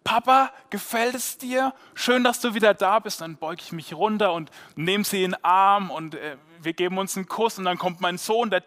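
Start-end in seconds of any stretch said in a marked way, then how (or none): 0.0-3.2 put-on sweet little girl showing off her dress; princess voice. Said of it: "mit ihrer Prinzessinnenstimme".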